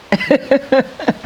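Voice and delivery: a high, loud burst of laughter; real laugh. Real, not acted. Woman recalling the doctor calling them strange, laughing. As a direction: laugh at the doctor's odd remark.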